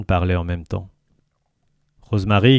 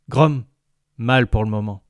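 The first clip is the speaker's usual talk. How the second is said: gurgling tentacle alien; 2 semitones higher than usual. Acted. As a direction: speak as the jovial alien. Lintel voice.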